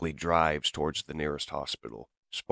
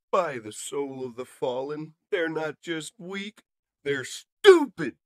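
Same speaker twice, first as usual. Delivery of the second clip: sneering villain robot; 11 semitones higher, 5 dB louder than usual. Acted. Villain mocks the humans.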